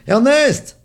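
high, loud call down the well; shout. A narrator's reading. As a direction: cry out the name in alarm. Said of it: "Il lève les yeux et crie".

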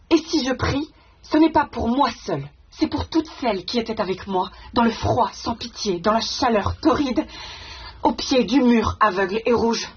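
slow, deliberate verse recitation; measured, weighty recital with long vowels; reciting a poem. Acted. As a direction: let each line of the poem land separately. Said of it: "elle termine justement son poème en disant".

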